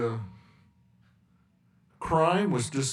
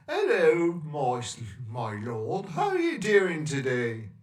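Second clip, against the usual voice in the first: posh English; 2 semitones higher, 3 dB louder than usual. Retold or imitated. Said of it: "That's how you be talking".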